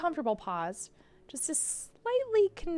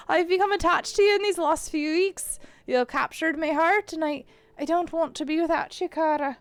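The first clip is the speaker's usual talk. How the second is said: higher-pitched put-on Irish accent; 4 semitones higher, 4 dB louder than usual. McMurphy confessing to Kara, higher Irish accent. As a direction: declare love in a rough Irish accent. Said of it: "maybe my Irish accent will get better".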